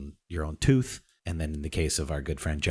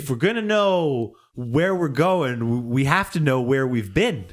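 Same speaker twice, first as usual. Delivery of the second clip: dramatic narrator voice; 7 semitones higher, 5 dB louder than usual. Acted.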